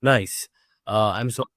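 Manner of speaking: big hall echo; speaking in an echoing room; reverb. Real, not acted. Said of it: "I'm extremely sorry for the reverb".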